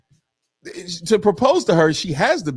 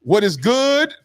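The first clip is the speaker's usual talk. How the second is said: lightly preachy, pitched up; church voice; 2 semitones higher than usual. Shown as a demonstration. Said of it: "I'm gonna try to say it in my best church voice".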